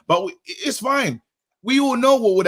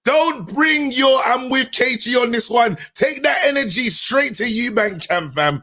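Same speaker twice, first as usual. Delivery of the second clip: shouted, a bit higher, teasing; mocking shout; 4 semitones higher than usual. Real, not acted. Host shouting down co-host who sided with him, mocking. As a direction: yell the jab back at them.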